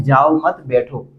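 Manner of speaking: "जाओ मत" together, then "बैठो" apart; pause after मत. Shown as a demonstration. Teacher contrasts the first meaning for students, pause after मत. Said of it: "बैठना है".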